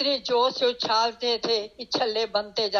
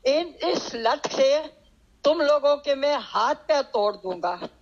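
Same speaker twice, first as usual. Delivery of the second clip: retold stern threat; 3 semitones higher than usual. Farmer warning rowdy boys on a train, mock stern threat. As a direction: imitate a stern threat with restrained force. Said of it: "कड़कती हुई आवाज में".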